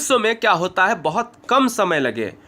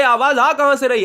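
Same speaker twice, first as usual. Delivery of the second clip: curious student; 6 semitones higher, faster than usual. Pretend. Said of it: "तो आप कहोगे".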